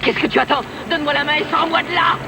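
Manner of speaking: desperate shouts for help; calling for help. Acted. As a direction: yell out in panic, hanging on. Appel à l'aide, suspendu dans le vide. (appels au secours désespérés)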